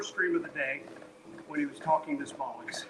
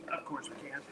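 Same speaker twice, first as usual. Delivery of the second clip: quiet; 3 semitones lower, 10 dB quieter than usual. Real, not acted. Pep talk to self on walk.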